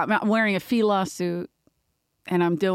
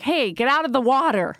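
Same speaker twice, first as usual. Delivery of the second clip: shouted lifeguard warning, a bit higher; lifeguard call; 5 semitones higher than usual. Retold or imitated. Lifeguard shouting at a kid in the inner city pool. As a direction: yell at kids to get out. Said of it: "I'd be like".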